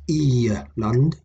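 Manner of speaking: E-land with a long ee gliding into land; g as y glide. Shown as a demonstration. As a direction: say E-land, no hard g. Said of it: "If you see I G L A N".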